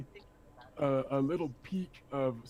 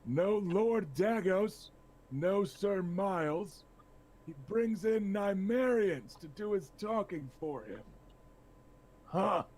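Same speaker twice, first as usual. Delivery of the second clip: scornful lord; 6 semitones higher, slower than usual. Acted. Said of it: "He says".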